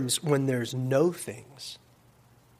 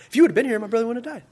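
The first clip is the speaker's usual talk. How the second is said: accusing Martha; 7 semitones higher, much faster than usual. Acted. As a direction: confront him in a hammed-up, pitched-up complaint. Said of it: "Martha comes to Jesus that one time".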